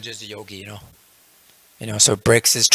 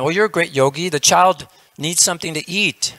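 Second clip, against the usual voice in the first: nagging wife; 5 semitones higher than usual. Retold or imitated. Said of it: "she says".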